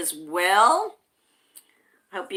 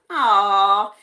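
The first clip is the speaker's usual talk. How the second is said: loud, drawn-out aww; touched aww; 7 dB louder than usual. Real, not acted. Host touched by viewers sharing hugs, touched aww. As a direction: let out an adoring aww.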